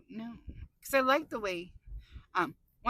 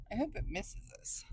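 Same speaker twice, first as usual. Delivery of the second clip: hushed, worried whisper; 9 dB quieter than usual. Real, not acted. Driver whispering to viewers about the storm, worried whisper. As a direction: whisper the hope under your breath.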